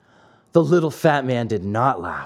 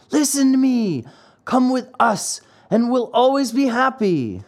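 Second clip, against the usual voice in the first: lightly voiced eager boy; 8 semitones higher than usual. A narrator's reading. Lampwick urges Pinocchio.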